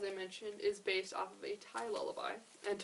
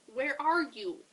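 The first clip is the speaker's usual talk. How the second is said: loud, higher storybook shout; 5 semitones higher, 10 dB louder, slower than usual. A narrator's reading. Ophelia calling back to Kevin, raised shout. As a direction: call out to someone far away. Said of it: "shouted Ophelia".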